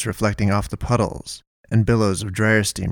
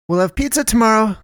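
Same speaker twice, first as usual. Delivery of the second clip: much higher, announcing cheerily; Melinda declaring; 12 semitones higher than usual. Acted. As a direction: declare it brightly to the whole store. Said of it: "Melinda declared".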